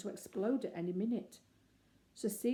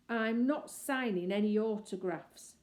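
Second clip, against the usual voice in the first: growled; 3 semitones higher, 6 dB louder than usual. Acted. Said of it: "he growled".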